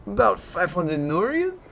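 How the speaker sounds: put-on old salvager names a price, drawn out and sly; fishing for a high price, slowly. Old tinkerer haggles with the visitor, sly and slow.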